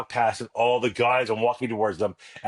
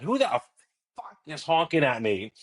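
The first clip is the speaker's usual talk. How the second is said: road rage yell; 4 semitones higher, slower than usual. Shown as a demonstration. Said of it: "I do that".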